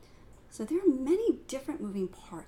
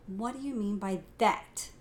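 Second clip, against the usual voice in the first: "you" lifted and louder; stress on YOU; 4 dB louder than usual. Shown as a demonstration. Teacher shows another stress on "you". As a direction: lean on "you". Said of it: "depending on the emphasis that I put on each word".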